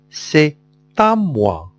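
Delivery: "C'est à moi" with the t sounded into "à"; teacher's careful t liaison in "C'est à moi". Shown as a demonstration. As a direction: link it as "C'est", then "ta-moi". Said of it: "On fait la liaison".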